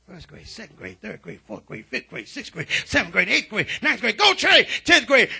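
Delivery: hushed roll-call swelling into urging yells; building cheer. Retold or imitated. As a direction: count up the grades into a rousing cheer. Father cheering child through school grades.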